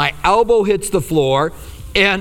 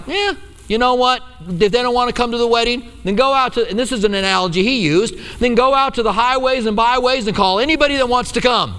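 a bit higher, casual shrug of a voice; God's voice, mildly acted; 5 semitones higher than usual. God shrugging off those who won't come, lightly voiced. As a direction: lightly voice God, offhand and easy. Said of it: "But God was like".

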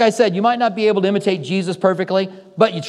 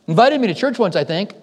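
hesitant, higher mumbling as a witness who barely remembers; unsure witness; 6 semitones higher, slower than usual. Pretend. Friend called to the stand, vaguely recalling, hesitant and higher. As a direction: hum and grope for a memory, unconvinced. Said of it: "and then kinda go".

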